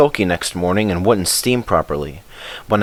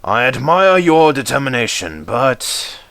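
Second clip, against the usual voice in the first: slow, hesitant boss trailing off; thoughtful controller; 3 semitones higher, slower than usual. Acted. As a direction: weigh the matter aloud. Controller pondering.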